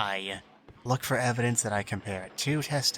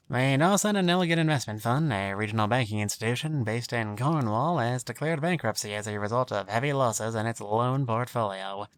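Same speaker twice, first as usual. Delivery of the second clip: put-on old-timey newsboy voice. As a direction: belt the headlines like a newsboy. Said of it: "my, like, old talky, like, newsboy voice".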